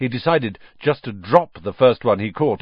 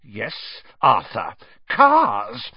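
angry wife; 5 dB louder, much slower than usual. A narrator's reading. Wife confronting her husband, pointedly angry. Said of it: "her eyes flashing".

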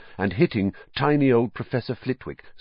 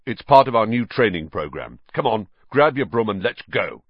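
hearty; 5 dB louder than usual. Acted. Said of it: "said Wood heartily".

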